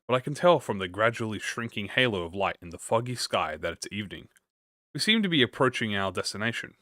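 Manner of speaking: measured, clearly articulated audiobook read; composed first-person storytelling; story narration. Acted. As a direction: narrate the chapter evenly, pausing between sentences. Reads the book aloud.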